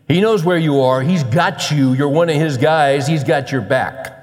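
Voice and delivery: emphatic, punchy sermon delivery; driving, reassuring preacher cadence; impassioned preaching. Acted. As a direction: preach it as a firm promise to the congregation. Preaches God's provision with rising force.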